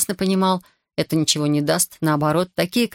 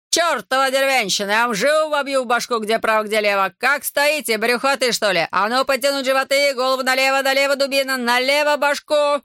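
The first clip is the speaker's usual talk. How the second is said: furious drill yell; 7 semitones higher than usual. Acted. Corporal screaming at soldiers, raging. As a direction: berate the recruits at full pitch.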